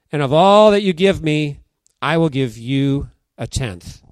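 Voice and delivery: earnest, measured Bible reading with a swelling vow; scripture reading. Acted. Pastor reads Jacob's vow to the congregation, solemn scripture reading. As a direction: read it like the Word carries weight.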